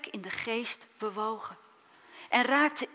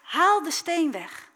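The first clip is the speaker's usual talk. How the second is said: firm command; 5 semitones higher, 8 dB louder than usual. Acted. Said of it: "En Jezus zei".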